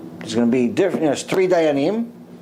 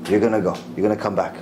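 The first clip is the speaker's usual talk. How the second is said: put-on low, calm verdict from an old sage; deep and settled, granting her return; Rav Ovadia ruling; 7 semitones lower, much faster than usual. Rabbi telling the dead woman she returns, low and calm. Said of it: "Rav Ovadia says to her".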